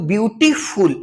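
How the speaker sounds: ब्यूटीफुल in two beats, ब्यूटी then फुल; ब्यूटी-फुल, each part distinct; two-part word. Shown as a demonstration. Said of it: "दो बार pronunciation करना पड़ रहा है".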